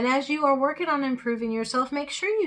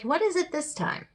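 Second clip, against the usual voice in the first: exasperated fish; 8 semitones higher than usual. Acted. Fish called a third time.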